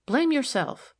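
high-pitched, pointed scolding; sharp rebuke. A narrator's reading. Officer turns blame back on the girl, sharp. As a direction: put the blame squarely on the listener. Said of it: "said Milly sharply".

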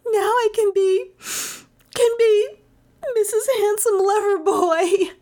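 high, bursting with amusement; giddy high voice. A narrator's reading. Melissa giggles helplessly, teasing Eric.

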